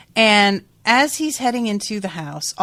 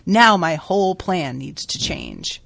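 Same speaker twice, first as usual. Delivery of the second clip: mildly acted frustrated self-reproach; worked-up venting, leaning hard on the key word. Ethan berates himself over his mistake, mildly worked up. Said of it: "just really worked up".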